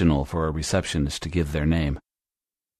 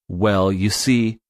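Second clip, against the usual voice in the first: slow demo; 2 semitones higher, slower than usual. Shown as a demonstration. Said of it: "You can use other phrases".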